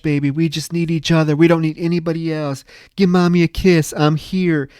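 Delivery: mock-clingy mother, insistent and gushing; hammed-up doting mother. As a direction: smother a child with overdone devotion. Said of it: "more incestuous undertones where she's like".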